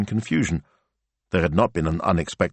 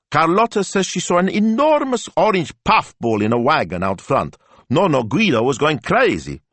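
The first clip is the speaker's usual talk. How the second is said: high, louder breathless news; excited girl; 11 semitones higher, 5 dB louder than usual. A narrator's reading. Gemma telling her father about the puffball in the wagon, excited. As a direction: tumble out the news in a rush of excitement.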